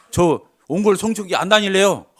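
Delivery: retold angry outburst. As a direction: snap back like an offended child. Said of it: "화를 내는 거예요".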